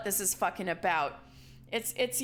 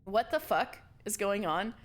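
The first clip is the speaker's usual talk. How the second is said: usual speaking voice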